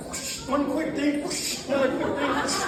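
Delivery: lightly hammed-up buddy impression; imitating Tim. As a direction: mimic Tim rattling off quick things. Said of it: "he's like".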